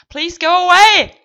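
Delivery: loud, slow hammed-up American accent; american accent german. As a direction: shout it like a loud American tourist. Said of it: "Ist das gerade ein amerikanischer Akzent?".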